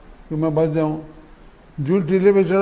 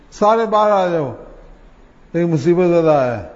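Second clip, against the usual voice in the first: put-on child calling out; 3 semitones higher, 3 dB louder than usual. Child in the dream calls the other children out, raised voice. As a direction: call everyone out of the holes, louder. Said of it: "اس نے آواز دی".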